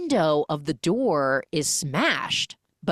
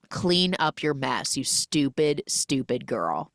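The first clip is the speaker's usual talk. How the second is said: cold insult; slower than usual. Retold or imitated. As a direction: drag out the insult with mock disdain. Boss's cruel parting insult.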